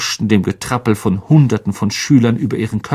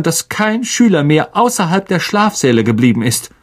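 raised, crisp commanding professor; brisk McGonagall; 8 semitones higher, 3 dB louder than usual. A narrator's reading. McGonagall instructing the house heads, brisk command. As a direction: give the orders briskly.

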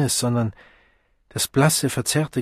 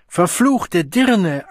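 high, loud, slow-stretched curse; wild, shaking rage; enraged curse; 7 semitones higher, 5 dB louder, much slower than usual. Acted. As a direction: drag out the insult in fury. Man curses her while shaking.

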